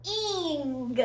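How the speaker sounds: "ing" said alone as the ending sound; "ing" said on its own as a sound; letter sound. Shown as a demonstration. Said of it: "G says".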